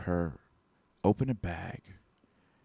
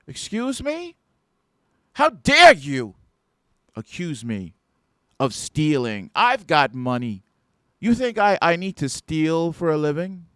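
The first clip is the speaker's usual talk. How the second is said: indignant shoplifter; 7 semitones higher, 8 dB louder than usual. Retold or imitated. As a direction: play the insulted customer, shocked and huffy. Accused shoplifter acts offended.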